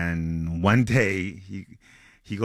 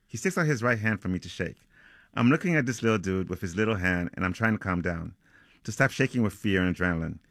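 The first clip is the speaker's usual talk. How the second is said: author reading aloud from a novel; measured, lightly dramatic storytelling; story narration. Acted. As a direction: read it like a suspense tale, phrase by phrase. Reads a passage from the novel.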